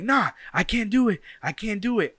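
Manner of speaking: high, loud defeated protest; giving up. Retold or imitated. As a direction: refuse like the fence beat you. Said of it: "He's like".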